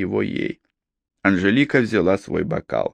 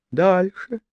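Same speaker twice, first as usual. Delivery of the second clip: higher eager female voice asking; woman pressing on; 10 semitones higher than usual. A narrator's reading. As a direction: press him to go on. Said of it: "Её голос стал тише".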